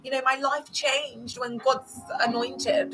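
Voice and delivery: high, gushing mock recruiter voice; hammed-up sugary church promoter. Cult promoter pitching church to ex-member, high gushing mock.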